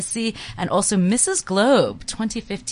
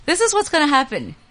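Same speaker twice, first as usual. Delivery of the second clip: booming prize announcer. Acted. Reads the Thailand prize promo.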